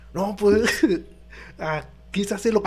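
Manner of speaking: quoting the teacher while cracking up; laughing through quote. Retold or imitated. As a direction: giggles breaking the strict words.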